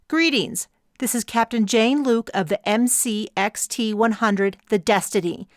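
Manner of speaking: a hint of a syrupy, fake-polite rival; smug rival captain.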